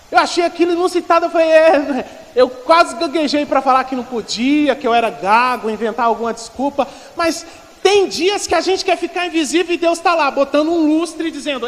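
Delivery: impassioned preacher telling his own story; fervent preaching. Real, not acted. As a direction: build the testimony up loudly for the congregation. Preaches at full force.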